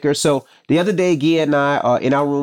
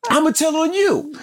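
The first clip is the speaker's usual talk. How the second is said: put-on high, whiny kid threat; child's voice; 14 semitones higher than usual. Mom imitating her kid threatening to tell. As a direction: squeak it like a tattling child. Kids threatening each other.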